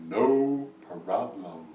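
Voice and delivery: very drawn-out, croaky frog reply; frog mother-in-law. A narrator's reading. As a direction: stretch each word like a slow frog. Frog mother-in-law's catchphrase reply.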